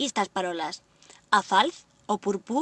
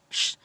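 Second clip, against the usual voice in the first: drawn-out "shh" for a silent letter; short teaching shush; shushing hush. Shown as a demonstration.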